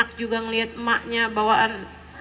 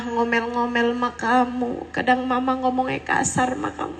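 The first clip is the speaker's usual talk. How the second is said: mother's apology. Pretend. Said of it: "duduk sama anak secara serius".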